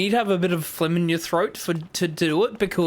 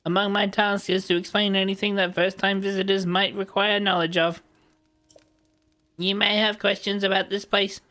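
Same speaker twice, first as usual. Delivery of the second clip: steady, even robot narration. Acted. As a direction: explain like a helpful construct robot. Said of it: "that was my, uh, robot voice".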